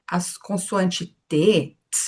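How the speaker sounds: T said as a bare consonant, no vowel after; slow teacher demo of the pure T sound. Shown as a demonstration. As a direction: end on the T, nothing after it. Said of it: "treinar a pronúncia pura das consoantes".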